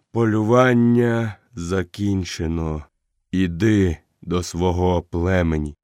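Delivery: fading leader speaking gently; lightly voiced old wolf, weak and low; dying old wolf.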